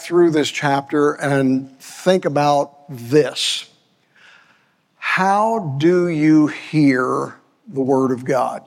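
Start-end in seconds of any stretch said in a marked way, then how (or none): 5.0-8.6 How drawn out slowly, then a pause; stress on How. Shown as a demonstration. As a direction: ask it slowly, leaning on How. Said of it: "I place an emphasis on that word".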